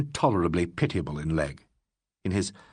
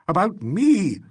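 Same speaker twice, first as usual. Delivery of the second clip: much higher, louder anguished cry; passionate cry; 9 semitones higher, 6 dB louder, slower than usual. Acted. Legg crying out to Alan about himself. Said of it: "cried Legg passionately".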